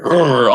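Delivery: loud mock "urgh" grumble; imitated frustrated growl. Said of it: "shaking his head and was just like".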